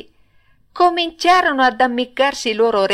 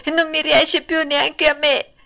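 crying out; 8 semitones higher than usual. Acted. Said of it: "gridò Pinocchio piangendo e traballando".

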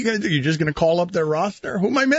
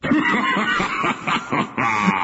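played laugh. Real, not acted. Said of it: "the game five, after game five laugh".

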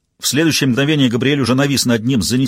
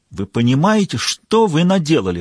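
exclaiming; 4 semitones higher than usual. Acted. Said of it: "воскликнул Габриэль".

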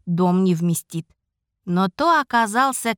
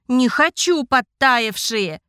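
whiny spoiled pouty drawl; 3 semitones higher, slower than usual. Acted. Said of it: "закапризничала девочка".

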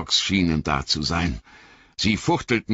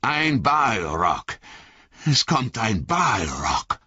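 higher, slow, terrified moan of "ein Balrog"; Legolas wailing; 4 semitones higher, slower than usual. Acted. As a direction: moan the name in horror. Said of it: "jammerte Legolas".

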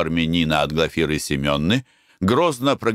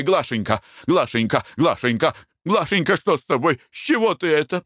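worried calling; 8 semitones higher than usual. A narrator's reading. Husband calls fainted wife.

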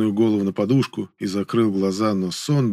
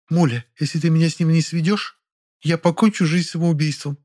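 lightly voiced girl, melodramatic; 7 semitones higher than usual. A narrator's reading. Nonna threatens melodramatically.

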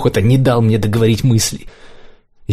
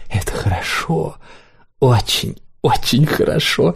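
higher, slow coy purr; flirtatious; 4 semitones higher, slower than usual. A narrator's reading. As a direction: coo it coquettishly. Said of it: "кокетничал".

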